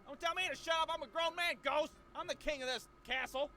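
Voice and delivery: mock outraged at a rude ghost; indignant shout. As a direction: tell off the ghost who told you to shut up. Arguing with the ghost.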